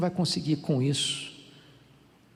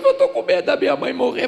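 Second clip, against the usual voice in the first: high, loud sobbing-style plea; crying colleague; 10 semitones higher, 7 dB louder than usual. Retold or imitated. Colleague crying to the seminarian, mock sobbing. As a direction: voice the friend weeping over his mother. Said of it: "E ele chorou".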